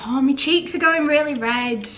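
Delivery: strong Yorkshire turn of speech; Yorkshire accent. Real, not acted. Remarking on her own red cheeks, Yorkshire accent. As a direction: let the Yorkshire accent slip out. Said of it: "Sounded really Yorkshire then".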